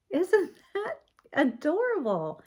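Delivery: high, drawn-out gushing question; proud grandma delighted by a gift; adoring delight. Real, not acted. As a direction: coo over it with real delight. Showing grandson's strawberry.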